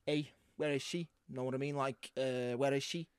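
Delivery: Scouse Batman impression. Giving the guesser an impression, Scouse accent. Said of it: "So you're, you're Scouse?".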